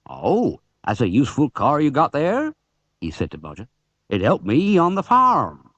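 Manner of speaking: a hint of a hearty farmer; friendly farmer admiring the car; lightly voiced farmer.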